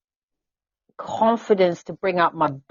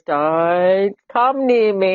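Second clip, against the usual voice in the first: standoffish warning; much slower than usual. Retold or imitated. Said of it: "a sign that says".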